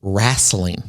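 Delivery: wrestling said as "rasslin", with an a; dad's pronunciation. Retold or imitated. Daughter mimics her dad's wrestling. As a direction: imitate dad saying wrestling. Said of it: "but he pronounces it".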